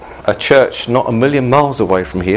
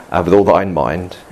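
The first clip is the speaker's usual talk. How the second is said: mock prophet voice; 4 semitones lower than usual. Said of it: "and they said".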